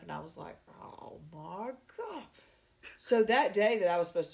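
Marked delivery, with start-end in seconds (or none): 0.8-2.2 1 mock dismayed sigh. Retold dismay at the set-up lunch.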